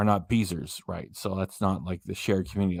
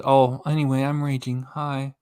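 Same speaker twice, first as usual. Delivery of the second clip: light mimic of her fake rage; a touch of mocking her flat sign-off; imitating her; 2 semitones higher than usual. Vlogger mocking a rival's fake rage, lightly imitated. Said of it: "where she says".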